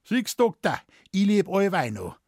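high, teasing gloat; feixend. Acted. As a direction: rub his survival in the doctor's face. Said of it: "Und der Bartl feixte den Arzt". (Bartl neckt den Arzt, höher und spöttisch)

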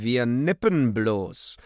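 loud, slow booming worker. Acted. The worker booms back at the waiter, slow and loud. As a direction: boom it out lazily. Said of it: "dröhnte".

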